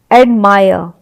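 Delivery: "एडमायर" ending in uh, r dropped; correct silent r. Shown as a demonstration. Teacher repeating the right reading, r dropped. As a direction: say "एडमायर" like ad-mai-uh. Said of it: "आय का उच्चारण आएगा".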